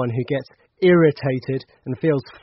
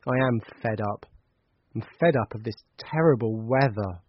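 fed up; 3 semitones lower, 3 dB quieter than usual. Acted. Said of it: "You sound really fed up".

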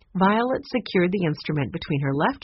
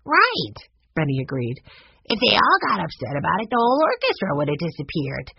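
put-on young boy Benny.

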